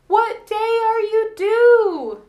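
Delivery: high, loud, slow startled question; the neighbor's startled question; surprised neighbor. Retold or imitated. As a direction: neighbor sees her in labor, asks high and loud. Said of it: "she goes".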